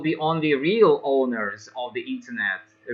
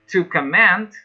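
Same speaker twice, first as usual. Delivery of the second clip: To comment, stressed on the second syllable, com-MENT; verb stress on comment; 3 semitones higher, 4 dB louder than usual. Shown as a demonstration. Teacher showing the verb comment, stress on MENT. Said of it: "is a verb".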